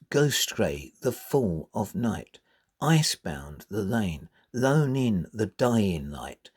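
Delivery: measured, rhythmic verse reading; unhurried reading with clear metrical stresses; poem recitation. Shown as a demonstration. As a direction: read the stanza so the beat shows. Reads the stanza to show rhythm.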